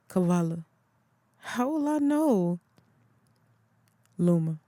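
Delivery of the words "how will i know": excited question. Acted. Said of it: "Kavala smiled with excitement".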